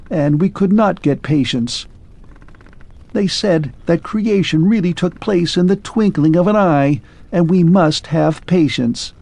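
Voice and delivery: lightly voiced machine losing hope; clockwork man. Clockwork man confides his one hope to Arthur.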